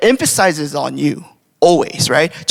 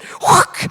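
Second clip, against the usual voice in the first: quick unvoiced whoosh of pouring; imitated whoosh. Parent retelling a child dumping water out, imitated whoosh. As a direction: mimic water being dumped in one puff.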